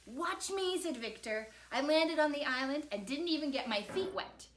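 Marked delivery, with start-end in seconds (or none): 0.0-0.8 put-on higher, eager boyish call; excited boy. A narrator's reading. Victor wants his mom to watch him, excited. 1.7-4.5 higher, louder boast; proud, excited boy. A narrator's reading. Victor boasts to Mom about his landing, excited.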